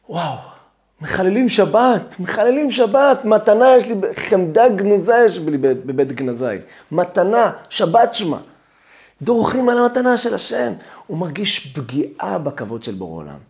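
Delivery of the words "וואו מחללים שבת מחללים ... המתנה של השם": anguished zealot. Acted. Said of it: "כל הדרך הלב שלו מפרפר".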